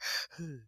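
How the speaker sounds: soft imitated sleep breath; sleepy breathing. Wife showing husband's breathing before sleep, soft sleepy exhale. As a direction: let out a soft breath as if drifting off. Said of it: "your breathing start changing".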